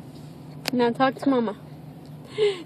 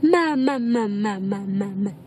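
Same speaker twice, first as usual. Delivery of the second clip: repeated chain sliding steadily lower; babbling model word; 5 semitones lower than usual. Shown as a demonstration. Parent getting baby to say Mama, babbling. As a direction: babble it over and over, descending.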